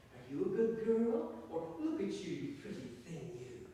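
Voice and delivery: mock baby talk to a pet bird. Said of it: "giving you baby talk".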